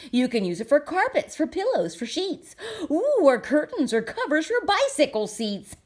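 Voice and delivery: breezy pitch of a salesman; mild salesy brush-off. Acted. Once-ler dismissing the Lorax, light salesy patter. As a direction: shrug him off and sell the thneed.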